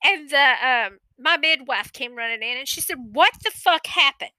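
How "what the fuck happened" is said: higher mock-angry demand; retold indignant outburst; imitated cussing out. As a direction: play the midwife cussing them out. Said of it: "she's literally cussing them out".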